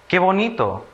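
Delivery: "Qué bonito" high, as an exclamation; exclamation of emotion. Shown as a demonstration. Teacher showing children an exclamation, admiring and high-pitched. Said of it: "expresa emoción".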